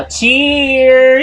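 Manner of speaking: laughing, high toast; cheery toast. Real, not acted. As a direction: raise the glass and call it out.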